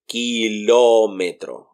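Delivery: Kilómetro said slowly, starting with a clear ki; slow careful pronunciation. Shown as a demonstration. Teacher slowly modelling the word for learners. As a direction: draw out Kilómetro from ki. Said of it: "sounds like ki".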